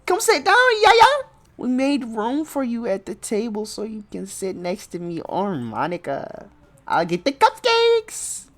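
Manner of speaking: high, cheery schoolgirl; bubbly girl voice. Acted. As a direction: chirp it like an eager friend.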